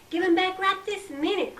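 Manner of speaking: high demanding yell. A narrator's reading. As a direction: order it right this minute. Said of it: "Martha yelled back".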